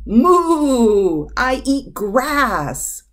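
loud, long-drawn mooing cow voice; bellowing cow. A narrator's reading. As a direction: moo it out high and slow. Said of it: "bellowed the cow".

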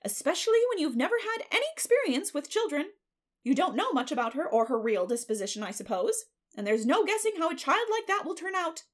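high, loud, swooping warnings; busybody predicting trouble; Mrs. Rachel, foreboding neighbor. Acted.

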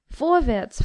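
the king pressing the dwarf, impatient. Acted. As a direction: hurry him up. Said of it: "sagte der König ungeduldig".

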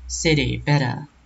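City, better with t like d, SIDDY, BEDDA; flapped t. Shown as a demonstration. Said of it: "kayak D bunyinya".

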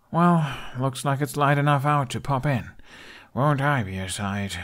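put-on a boy joking about his look; Hiccup voice. Hiccup preparing to go.

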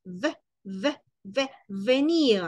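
"venir" built from the letter sound "V". Shown as a demonstration. Teacher links the letter V to "venir". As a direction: slide from "V" into "venir". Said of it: "de la V ya es así".

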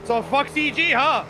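a hint of hillbilly voice; hillbilly accent. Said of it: "the hillbilly voice".

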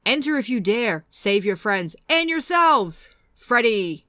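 lightly voiced, slow villain read; a hint of a menacing horror villain, slowly; bad Freddy Krueger voice. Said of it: "that was a terrible Freddy impression".

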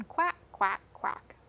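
ordinary talk

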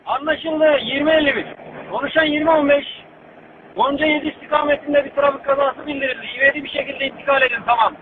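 radio dispatch voice; brisk dispatcher on the radio; over walkie talkie. Acted. (telsizden anons)

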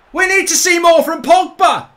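very loud, high celebratory shout; triumphant yelling. Real, not acted. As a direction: bellow it in goal-scoring joy. Shouts own remark after goal.

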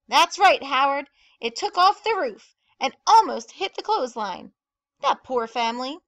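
loud, high, emphatic report easing at the end; excited gossip. A narrator's reading. Bertie telling Mayor Hatch about the damage, loudly excited. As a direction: pass on the drama with relish. Exaggerated news retold by phone.

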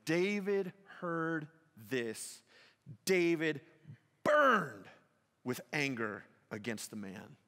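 slow, weighty preaching with long pauses; dramatic sermon pause. Acted. Preacher describing David's anger to the church, slow and weighty. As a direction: let each word land.

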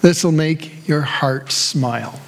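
put-on light Hoosier waitress accent with a laugh; a hint of a bubbly Indiana waitress, Hoosier accent. Pastor imitating the late-night Waffle House waitress, mild Hoosier accent. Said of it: "in that particular Hoosier accent".

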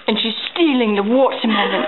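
mock-Australian nature narrator; bad Australian accent. Narrating the kitty's theft, bad Australian accent. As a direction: report it in badly faked Australian. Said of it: "Your Australian accent is horrible".

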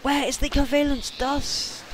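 high frustrated outburst; exasperated, fed up; raging gamer. Real, not acted. Can't find item, frustrated.

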